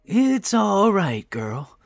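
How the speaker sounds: gently reassure, drawing the words out; calm reassurance. A narrator's reading. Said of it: "answered calmly".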